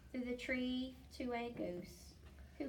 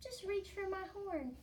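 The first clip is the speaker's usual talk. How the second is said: 1 gentle call; 9 semitones higher than usual. Acted. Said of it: "she called".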